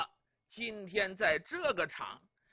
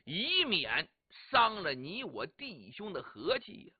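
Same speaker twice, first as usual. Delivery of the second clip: cold sneer; 2 semitones lower than usual. Acted. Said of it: "王伯党冷笑一声".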